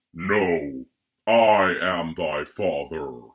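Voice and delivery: very low, deep voice with heavy breathing. Reading a Darth Vader line aloud from a book, Darth Vader voice, heavy breathing. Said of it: "*heavy breathing*".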